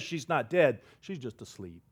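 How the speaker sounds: quiet, calm certainty; soft correction. Acted. Jesus quietly tells mourners the girl only sleeps. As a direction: say it gently, almost to yourself.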